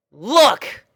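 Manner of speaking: high, loud sharp bark; snapping. A narrator's reading. Rainbow snapping at the puppies. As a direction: spit it out, patience gone. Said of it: "she spat at the puppies".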